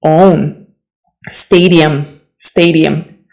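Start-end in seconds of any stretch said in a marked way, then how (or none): 0.0-0.7 own, oh vowel, no W; own not one. Shown as a demonstration. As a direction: own said with a long O as in bone. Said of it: "most people say one".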